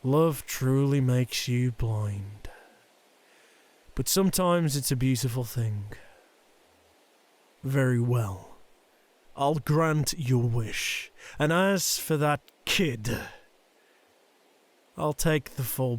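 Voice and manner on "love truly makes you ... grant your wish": gentle resignation. Acted. Father granting his son's wish, gently. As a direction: give in tenderly, taking your time.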